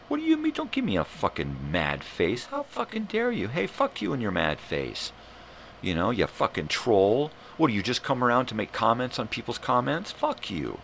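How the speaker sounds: mock enraged. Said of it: "now we're getting enraged".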